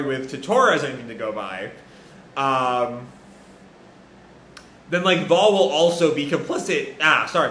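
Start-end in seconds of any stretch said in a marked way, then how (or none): 4.9-6.9 voice cracking. Real, not acted. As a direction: voice cracks mid-sentence. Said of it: "my voice cracked".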